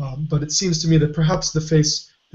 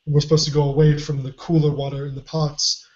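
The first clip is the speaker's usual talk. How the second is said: hoarse voice. Real, not acted. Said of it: "I really am losing my voice".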